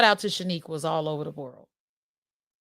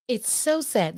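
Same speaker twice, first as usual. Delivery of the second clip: Paula Leia voice; 3 semitones higher, 3 dB quieter, slower than usual. Retold or imitated. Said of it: "This is my Paula Leia voice".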